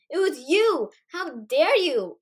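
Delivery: put-on loud, indignant outburst at the girl; angry shout. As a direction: yell it, accusing her. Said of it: "I shouted".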